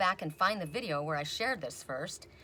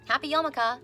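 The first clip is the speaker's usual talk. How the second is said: playful greeting; 7 semitones higher, 6 dB louder than usual. Retold or imitated. Saying the holiday pun greeting.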